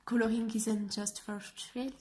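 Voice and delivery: anglais lu avec un fort accent français; English with a French accent. Real, not acted. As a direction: lire la phrase anglaise avec l'accent français, sans forcer. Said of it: "Excusez mon accent fabuleux". (anglais à l'accent français assumé)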